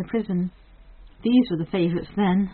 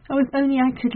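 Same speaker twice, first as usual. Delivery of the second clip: eager cry; 6 semitones higher, 4 dB louder than usual. A narrator's reading. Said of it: "she cried eagerly".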